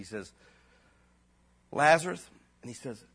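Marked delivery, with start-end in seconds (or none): 1.7-2.3 a preacher calling Lazarus out of the tomb; loud call. Retold or imitated. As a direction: call the name Lazarus out, louder. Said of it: "Jesus with a loud voice".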